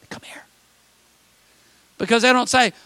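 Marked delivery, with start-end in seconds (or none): 0.1-0.4 breathy secretive whisper; hushed gossip whisper. Retold or imitated. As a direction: lean in and whisper the invitation. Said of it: "they have to whisper things".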